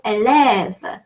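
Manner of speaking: élève with an open, lengthened second vowel. Shown as a demonstration. French teacher showing the stressed vowel, open and long. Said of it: "second A is going to be both more open".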